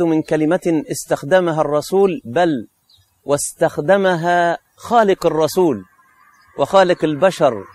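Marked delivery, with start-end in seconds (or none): none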